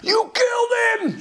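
shocked doctor shouting; doctor's yell. Retold or imitated. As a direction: shriek it like a panicked doctor. Doctor screams at healer.

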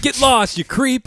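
high, playful brush-off of a creep; mock rejection. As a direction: send him packing in a put-on high voice.

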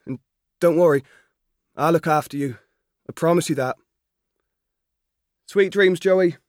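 lightly voiced farm boy reassuring his horse; young Albert, tender to the horse. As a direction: soothe a nervous foal.

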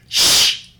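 unvoiced hushing shush; mock shush from the row ahead; whispered shush. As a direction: hush them with a whisper. People in front shushing.

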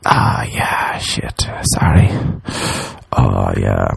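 hushed, half-whispered mock condolence; acted awkward, barely voiced apology; awkward sympathy. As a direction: murmur it low, at a loss.

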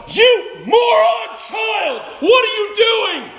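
high, loud mock yell at a toddler; hammed-up dad scolding his toddler; mock angry father. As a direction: ham up a harsh, shouting father.

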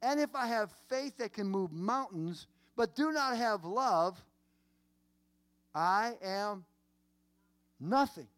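high-pitched, emphatic scripture preaching; impassioned preaching. Real, not acted. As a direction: preach it high, with long pauses before key words.

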